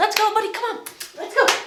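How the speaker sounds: very high, quick, happy, upbeat, coaxing cheer. Showing how to urge a dog away quickly: happy, upbeat tone. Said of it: "speak in a happy tone".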